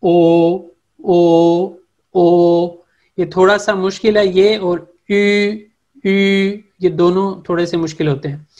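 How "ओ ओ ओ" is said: teacher showing the dotted ओ; throaty Turkish vowel. Shown as a demonstration. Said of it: "गले के निचले हिस्से से हमने इसको अदा करना होता है".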